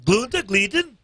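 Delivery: lightly hammed German accent; a hint of a mock German accent. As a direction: greet the crowd like a joke German host. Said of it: "German accent".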